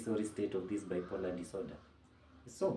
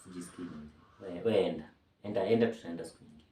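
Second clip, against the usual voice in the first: listless brush-off. Retold or imitated. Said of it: "niko like".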